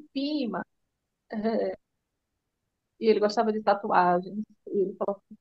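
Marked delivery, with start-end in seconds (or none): 0.1-0.6 "Prima" softened to "Pima", no r; pet-name pronunciation. Retold or imitated. How the two cousins addressed each other, pet-name pronunciation. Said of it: "porque eles se tratavam assim".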